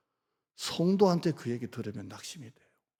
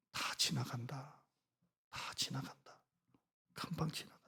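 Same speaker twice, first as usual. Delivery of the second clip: 느리게, 작게 속삭이듯 되뇌기; 스스로를 달래듯 작게 중얼거리기; 조용한 혼잣말; 12 dB quieter than usual. Retold or imitated. Self-talk mantra, soft. (힘들 때 자신에게 작게 되뇌는 말)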